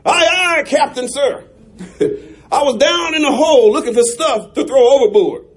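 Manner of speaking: sailor's report broken by laughter; half-laughing sailor's report. Acted. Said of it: "a sailor comes up".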